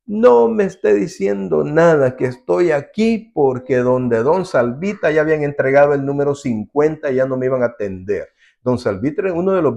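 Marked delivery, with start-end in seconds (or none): 0.0-8.3 defensive peasant. Retold or imitated. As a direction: protest to the doctor, a touch indignant. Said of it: "Y le dijo".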